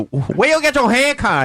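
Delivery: imitating Dennis's accent. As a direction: mimic the mock accent, laughing. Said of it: "doing that joke".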